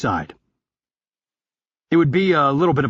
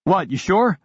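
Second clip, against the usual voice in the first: higher character voice; 7 semitones higher than usual. Acted. Dialogue reply.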